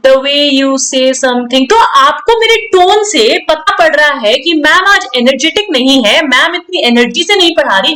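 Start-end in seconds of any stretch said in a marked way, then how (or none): 0.0-1.6 low-energy teacher. Shown as a demonstration. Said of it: "मैं ऐसे पढ़ा रही हूँ".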